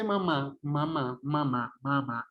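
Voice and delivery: "mamá" repeated, air coming out through the nose; nasal-resonant demo of "mamá"; nasalized vowels. Shown as a demonstration. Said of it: "sale completamente por la cavidad nasal".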